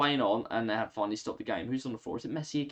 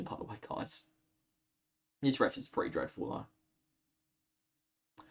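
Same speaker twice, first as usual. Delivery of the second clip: yawning; 2 semitones lower, 9 dB quieter, much slower than usual. Real, not acted. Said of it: "I'm sorry about the yawning".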